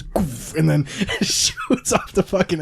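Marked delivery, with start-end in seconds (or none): 0.0-0.5 short breathy launch noise; imitated launch whoosh. Co-host describing a maxed-out coaster, imitated launch whoosh. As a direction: make the sound of a coaster shooting off. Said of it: "So it just goes".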